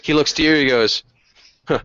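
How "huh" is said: high, rallying ghost-knight cry; knight's battle cry. Acted. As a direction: proclaim it like a valiant knight.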